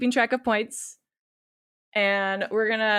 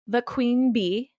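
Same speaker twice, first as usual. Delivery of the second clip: put-on Valley Girl; 3 semitones higher, slower than usual. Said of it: "talk like a Valley Girl".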